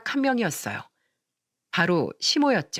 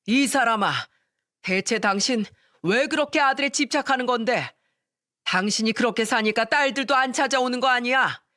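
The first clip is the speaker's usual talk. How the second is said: 꾸짖는 시아버지; 4 semitones higher than usual. Acted. 시부가 아내를 꾸짖음.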